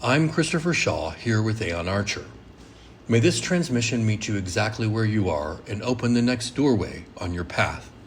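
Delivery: measured, low-pitched welcome read; formal scripted show opening; podcast intro. Acted. Host welcoming listeners to the temple podcast, measured intro read.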